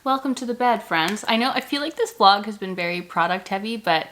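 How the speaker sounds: slight lisp from retainers; talking with retainers in; wearing a retainer. Real, not acted. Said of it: "I have my retainers in, so please forgive the slight lisp".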